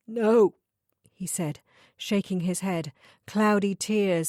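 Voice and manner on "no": louder, higher pained protest; anguished no. Acted. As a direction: cry out the refusal. Sobbing client refuses comfort.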